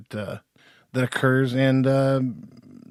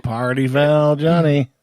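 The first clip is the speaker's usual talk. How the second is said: loud teasing callout; 2 semitones higher, 8 dB louder, slower than usual. Real, not acted. Teasing absent buddy Johnny.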